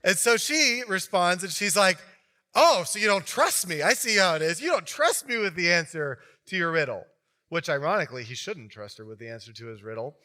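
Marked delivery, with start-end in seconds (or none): 2.5-7.0 mock offended. Karen accusing Samson of not trusting her, mock offended. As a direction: sound wounded to guilt him.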